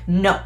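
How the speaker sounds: curt falling NO; very emphatic. Shown as a demonstration. Teacher demonstrating the fourth tone, emphatic. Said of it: "it's very emphatic".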